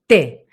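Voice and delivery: "té" in a middle timbre, at the teeth; middle resonance. Shown as a demonstration. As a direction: place "té" centrally behind the teeth. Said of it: "se pone un timbre medio". ("té" con timbre medio)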